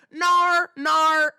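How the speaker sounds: loud, high mock British "no"; toddler's British accent. Two-year-old refusing his parents, loud British accent. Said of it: "what if he's doing that to his parents".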